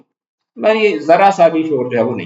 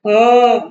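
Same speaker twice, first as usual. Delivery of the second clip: groaning hum; 9 semitones higher, much slower than usual. Acted. Husband answers his wife with a groaning, hammed-up hmm. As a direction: moan a lazy "hmm". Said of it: "کراتے ہوئے کہتا ہے".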